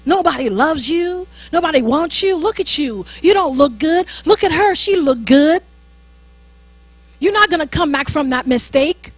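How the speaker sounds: enemy's taunting lies. Acted.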